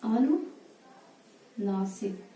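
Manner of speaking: अनुनासिक stretched very slowly, syllable by syllable; teacher dictating अनुनासिक very slowly; slow drawn-out word. Shown as a demonstration. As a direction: drag out अनुनासिक for the class. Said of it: "नीचे हम लिख देते हैं अनुनासिक".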